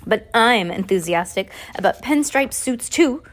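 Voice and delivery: a hint of the snooty lady's voice; Esme's voice by mistake. Reader slipping into Esme's voice, lightly haughty. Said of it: "I thought that was gonna be the other lady".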